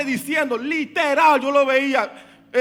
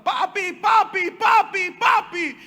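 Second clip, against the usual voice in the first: put-on higher, louder child calls of papi; daughter screaming; 6 semitones higher, 4 dB louder, slower than usual. Daughter at the dentist calling her father, higher panicked cries. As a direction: cry for daddy in panic. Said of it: "empezó a gritar".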